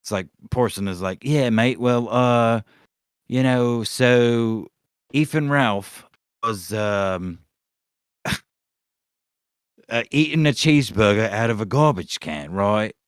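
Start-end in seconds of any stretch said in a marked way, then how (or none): 1.2-12.9 put-on rough Australian-leaning British accent; mock British impression. Fake interviewer putting a question to a guest, mock British accent. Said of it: "Is an Australian".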